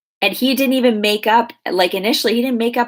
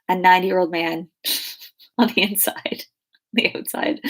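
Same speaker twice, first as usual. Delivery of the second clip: laughing. Real, not acted. Joking about Dave's age.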